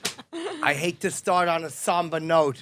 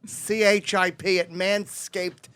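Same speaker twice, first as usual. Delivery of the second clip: ad read. Acted. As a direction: read it like a host ad spot. Ad read for sponsor.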